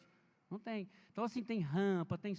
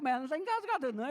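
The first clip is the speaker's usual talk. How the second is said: retold surprise; 5 semitones higher, 6 dB louder, faster than usual. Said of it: "Aí eu falei".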